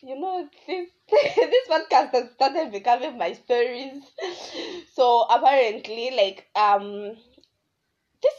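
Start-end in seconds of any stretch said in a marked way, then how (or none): 0.0-4.0 laughing through the words; amused, giggling as she admits it. Real, not acted. Laughs at her own story.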